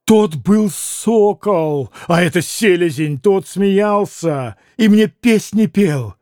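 drawn-out, anguished self-reproach; theatrical wail of regret; bitter lament. Acted. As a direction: curse yourself slowly, word by word. Grushenka's bitter outburst of self-reproach.

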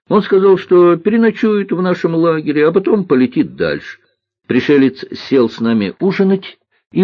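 put-on high, animated boy voice, hushing at the very end; мальчик-рассказчик. (взволнованный рассказ мальчика, под конец тише)

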